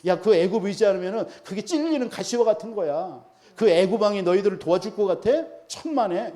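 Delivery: scornful, incredulous questioning; mock them for trusting in the wrong ally; scoffing mockery. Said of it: "비웃는 거예요".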